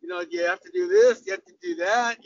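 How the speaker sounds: mock-naive questions, pitch lifting; feigned innocent asking; playing silly. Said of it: "go out there and be s-, silly".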